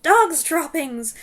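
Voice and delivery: high, loud, drawn-out cry; yell. A narrator's reading. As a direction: yell it out slowly as an alarm. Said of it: "and then the yell of".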